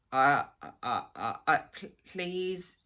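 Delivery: stammering, fearful pleading; hoarse with fear. A narrator's reading. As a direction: choke out a frightened please. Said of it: "his voice was hoarse with fear".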